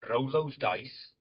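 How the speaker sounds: slow, drawn-out mock Welsh accent; Tom Feeks. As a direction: give slow sage advice in put-on Welsh. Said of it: "I could do Tom Feeks if he was doing the Welsh accent".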